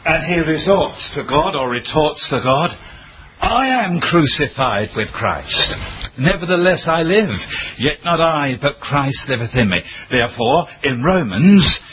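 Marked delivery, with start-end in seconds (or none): 3.4-9.8 triumphant declaration. Pretend.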